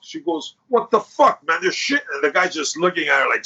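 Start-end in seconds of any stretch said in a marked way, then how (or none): 0.7-2.0 a raised, angry retold yell; retold furious outburst. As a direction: snap it out like she's furious at him. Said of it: "She's, like, furious".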